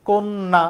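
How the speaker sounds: "কোন না" as "kon-na", closed o, double n; model pronunciation. Shown as a demonstration. Teacher modelling for students, careful kon-na. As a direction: say "কোন না" as one word with held n. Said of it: "এরকম হবে উচ্চারণ".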